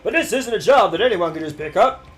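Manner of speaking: loud, put-on old-timer voice; old-timer game character. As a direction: grouse at a youngster like a veteran worker. Same old gear worker speaking.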